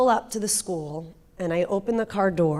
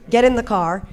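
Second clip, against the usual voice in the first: retold screaming; 3 semitones higher, 7 dB louder than usual.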